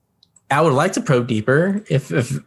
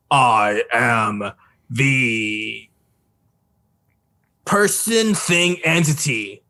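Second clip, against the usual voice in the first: grand telepathic announcement. Acted. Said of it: "when it's a general discussion".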